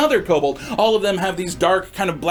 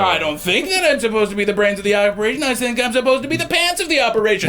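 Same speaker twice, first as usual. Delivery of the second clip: defensive kobold; faster than usual. Acted. Second kobold answers in the quarrel.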